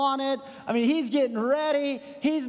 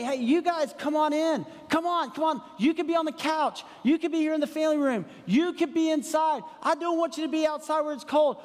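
higher, eager welcoming host; welcoming innkeeper; 4 semitones higher than usual. Retold or imitated. Imagined innkeeper invites Joseph and Mary inside, higher and eager. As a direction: throw the door open, pitched up and eager.

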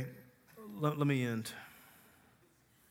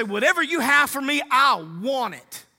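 surrender prayer; 7 semitones higher, 6 dB louder than usual. Acted. Preacher acting a surrender prayer.

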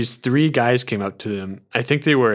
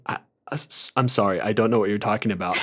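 confused apology; 4 semitones lower, 6 dB quieter, faster than usual. Retold or imitated. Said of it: "the flight attendant was like".

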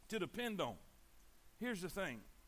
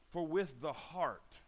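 slow, lower delivery landing firmly on "heart"; stress on heart; 3 semitones lower, slower than usual. Shown as a demonstration. Preacher showing what he emphasizes in the verse, stress on "heart". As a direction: lean slowly into the word "heart". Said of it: "Here's what I always emphasize on that verse".

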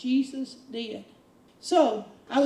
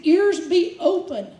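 louder, slow authoritative order; deliberate, bossy decree; slow command; 3 semitones higher, 5 dB louder than usual. Retold or imitated. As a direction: command the ears to open. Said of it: "He would speak directly to it".

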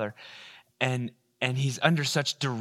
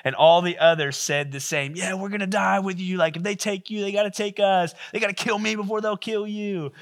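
crowd roar; 5 semitones higher than usual. Acted. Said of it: "there's a roar from the other disciples".

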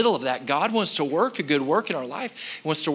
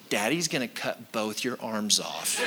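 laughing; 7 semitones lower, 5 dB quieter than usual. Retold or imitated. Mock child misunderstanding, laughing.

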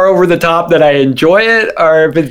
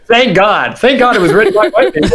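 laughing at herself; 5 semitones higher than usual. Pretend. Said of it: "I can't believe I'm saying".

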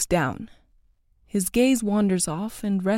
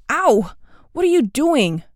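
loud, high yelp of pain; crying out in pain; 7 semitones higher, 6 dB louder than usual. A narrator's reading. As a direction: yelp as your arm is twisted. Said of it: "Charles cries out".

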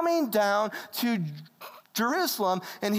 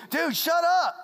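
higher-pitched mock-exasperated telling-off; crowd's rebuke; 8 semitones higher, 4 dB louder than usual. Crowd to the screaming blind man, exasperated rebuke. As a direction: act out an annoyed onlooker hushing someone. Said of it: "everyone's saying".

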